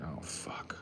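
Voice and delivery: breathy whispered "oh, fuck"; whispering under his breath on the phone; whispered curse. Retold or imitated. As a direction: whisper it in dismay. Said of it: "I was like".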